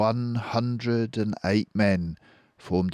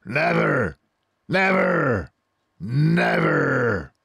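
high, louder repeated cry; cried never; 10 semitones higher, 6 dB louder, much slower than usual. Acted. Boggis crying out his vow, high and loud. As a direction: cry each never higher than normal. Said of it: "cried Boggis".

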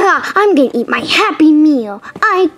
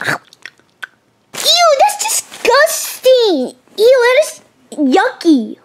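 disgusted; 4 semitones higher, much slower than usual. Acted. Tastes apple slices.

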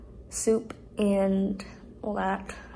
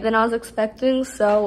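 muffled at first then clear; speaking through hand briefly; 4 dB louder than usual. Real, not acted. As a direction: hand cupped over lips. Seen 2: Hand covers mouth at words' start, lowered by 0.6s.

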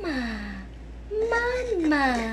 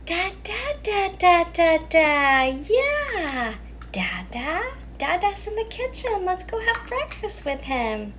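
put-on high baby babble; babbling baby then mother; 4 semitones higher than usual. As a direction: play both baby and mom. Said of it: "Then the baby babbles".

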